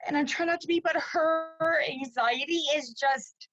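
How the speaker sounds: fighting back real tears while speaking; tearful. Real, not acted. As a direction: voice close to tears, slightly slowed. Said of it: "I'm crying 'cause I'm just so emotional".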